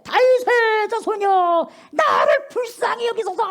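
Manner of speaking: a blind beggar crying for mercy at full voice; desperate shout. Acted. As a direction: cry out high and loud, slowly. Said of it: "더욱 크게 소리 질러 이르되".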